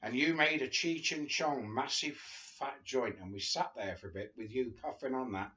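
steady memoir reading voice; unhurried storybook narration; reading a book aloud. Acted. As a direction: read the chapter like a storyteller. Reads memoir chapters aloud.

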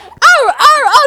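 high, loud, slow excited yells; imitating a startled hyper outburst; hyper shouted exclamations. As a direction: burst out like someone suddenly wired. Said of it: "พี่แฮนน่าแบบ".

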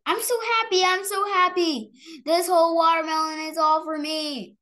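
very high, bright happy voice; delighted child. Acted. Girl finds a watermelon room all for her, high and delighted. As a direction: sing out your delight like a little girl.

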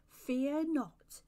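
slow, drawn-out soothing words, a little high; gentle reassurance. A narrator's reading. Angel teaching the cherub what to say, gentle voice. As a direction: stretch it out as a model of gentle speech. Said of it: "in a gentle voice".

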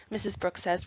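plain reading voice

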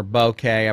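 "bokeh" pronounced with a long ay at the end; bokeh as boh-KAY. Shown as a demonstration. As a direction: say "bokeh" ending in a "kay" sound. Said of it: "I've heard it pronounced".

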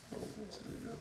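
high, hammed-up whimpering plea; mock crying wail. Owner hamming up sorrow at selling his dog, high mock wail. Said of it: "I'm gonna cry".

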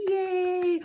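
bright high cheer; happy little celebration; cheerful yay. Real, not acted. Cheer at end of song.

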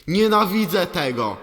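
hammed-up fan fury, spat out at the screen; angry review read out. Reading an angry fan's review aloud, mock furious. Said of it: "ktoś tu się ewidentnie zdenerwował".

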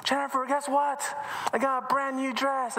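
put-on high, eager girl's voice; bursting to tell her friend; excited child. Emily tells Jennifer her news, high and excited. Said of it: "they're all excited".

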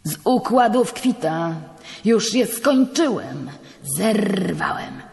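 the judge flaring up at the priest; heated retort. Acted. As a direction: brush the settlement off with heat. Judge heatedly rejects the settlement.

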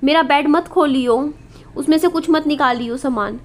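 firm warning. Retold or imitated. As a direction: insist hard, hands off my bed. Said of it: "मम्मी ने मुझे ज़ोर दे के बोला". (Mummy बेटी को ज़ोर देकर चेतावनी देती है)

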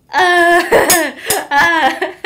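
high, loud laughing whimpers; half laugh, half cry in short bursts; emotional laughing "uh"; overwhelmed laughing sob. Real, not acted. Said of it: "I'm so emotional".

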